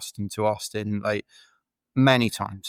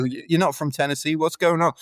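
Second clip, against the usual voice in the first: surprised local; 6 semitones higher than usual. Retold or imitated. Locals quizzing the runner.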